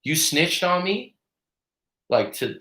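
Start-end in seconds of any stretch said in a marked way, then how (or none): 0.0-1.1 high, slow snitch accusation; imitating the bully's suspicious jab; accusing bully. Bully confronting the boy over the tag, mock accusing. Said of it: "this other guy goes".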